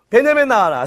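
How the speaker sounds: sing-out summons to a character; calling out. Pretend. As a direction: call Benjamin out for the children. Leads children calling out Benjamin.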